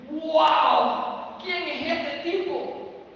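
loud wow, then slow astonished question; stunned by what they saw; amazed wonder. Acted. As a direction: disciples amazed at Jesus after the storm, slow and astonished. Disciples amazed after calm.

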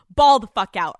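loud encouraging shout; hype shout. Real, not acted. Host urging a listener to splurge, shouting. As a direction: yell it like a cheerleader.

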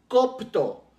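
copto drawn out slowly, first O stressed. Shown as a demonstration. Preacher introducing the Greek root, copto stressed on first O. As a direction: lean on the first syllable of copto. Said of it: "con acento en la primera O".

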